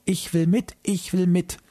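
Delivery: put-on high, pleading little girl voice; begging squeaky voice. A narrator's reading. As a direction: beg like a small child, squeaky and insistent. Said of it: "bettelte meine Schwester mit piepsiger Stimme".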